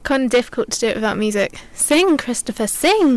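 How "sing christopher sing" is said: theatrical order, pitched up; playful command. Pretend. Co-host wants music for jigging, theatrical command. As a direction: urge him with mock grandeur.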